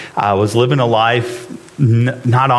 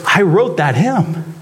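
hymn writer's confession; 6 semitones higher, slower than usual. Retold or imitated. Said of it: "he goes".

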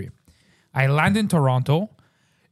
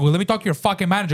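retold angry demand; 4 semitones higher, faster than usual. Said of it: "I started screaming".

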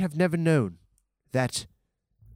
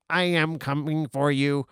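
flat mechanical robot voice. Pretend. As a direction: speak like a marching robot. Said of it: "that robot sucked".

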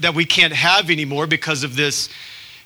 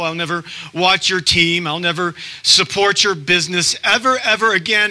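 imitating a cancel-culture voice; 3 semitones higher than usual. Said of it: "I'm gonna impersonate somebody".

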